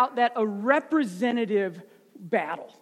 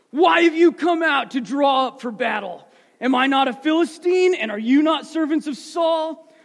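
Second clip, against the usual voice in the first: booming giant's challenge, loud at the start; giant warrior voice; 3 dB louder than usual. Acted. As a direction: call out like a giant warrior, shouting at first. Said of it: "That's my best giant warrior voice".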